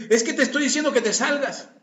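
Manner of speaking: lightly hammed-up insistence, laughing; insistent. Pastor acting someone stuck repeating the same phrase. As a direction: repeat it with no other words. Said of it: "tú le dices".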